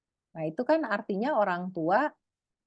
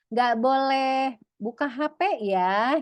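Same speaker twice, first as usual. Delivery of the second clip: drawn-out warning; 5 semitones higher, 3 dB louder, slower than usual. Acted. Parent forbidding phone.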